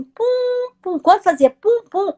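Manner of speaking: high-pitched "pum", held long; imitated slowing beeps. Showing how the blinking lights slowed, imitated machine beeps. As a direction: mimic a machine pulse slowing down. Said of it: "ia ficando mais lento".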